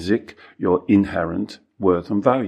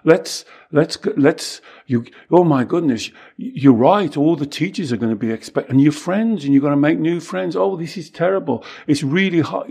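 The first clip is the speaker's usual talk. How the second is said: mock panic; 5 semitones higher than usual. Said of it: "You wouldn't say".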